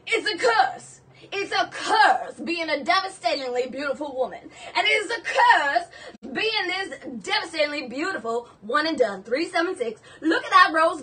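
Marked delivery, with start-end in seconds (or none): 0.1-8.5 put-on theatrical Southern belle accent; Blanche Devereaux. Seller as Blanche bemoans her own beauty, Southern accent. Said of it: "This is Blanche Devereaux two point oh".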